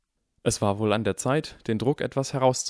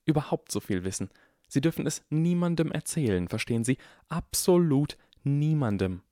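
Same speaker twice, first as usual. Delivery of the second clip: lightly voiced strict old teacher, urgent and hushed; a hint of a worried professor warning a child; stern urgent McGonagall; 6 semitones higher than usual. A narrator's reading. Professor warning the boy, lightly voiced urgent sternness.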